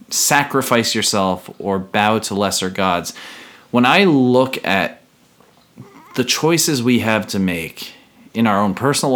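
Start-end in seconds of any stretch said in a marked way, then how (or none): 0.1-3.1 solemn lyric reading. Acted. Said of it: "when I hear that".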